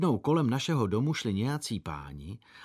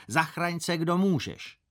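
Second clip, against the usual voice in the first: higher, mock panicked cry; fleeing enemies; 7 semitones higher than usual. Beaten enemies fleeing the strong boy, higher mock panic. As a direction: play the enemies scattering in fright.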